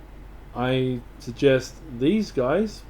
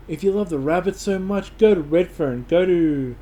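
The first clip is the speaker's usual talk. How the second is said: higher, louder mock telling-off; indignant local; 4 semitones higher, 4 dB louder than usual. Locals telling a Rabbits fan to go elsewhere, indignant. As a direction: act out a local sending the fan packing.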